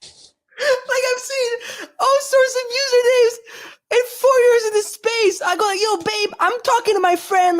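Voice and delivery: high-pitched, helpless giggly voice; crying with laughter. Real, not acted. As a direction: squeal it through a real laughing fit. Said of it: "I'm fucking crying, bro".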